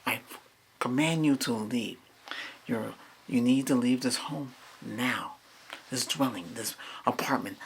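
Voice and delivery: firm, steady spirit-clearing voice; banishing command. Real, not acted. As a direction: order the spirit out of the home.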